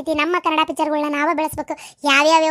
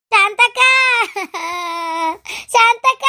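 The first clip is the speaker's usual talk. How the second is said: distressed cry out; 3 semitones higher than usual. Acted. Woman calling neighbour Shantakka for help, crying out. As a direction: cry the name out in panic. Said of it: "ಕಲ್ಲವ್ ಯಾಕೆ ಈ ನಮ್ನಿ ಚೀರಾಡಕತ್ತಾಳ".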